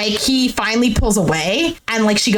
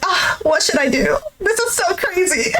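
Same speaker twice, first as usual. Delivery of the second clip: higher flustered voice; mock flustered squeal; imitated flustered woman; 4 semitones higher than usual. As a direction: mimic her being overwhelmed. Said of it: "she gets off him and she's like".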